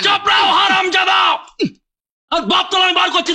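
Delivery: angry shout. Acted. Furious quarrel over father.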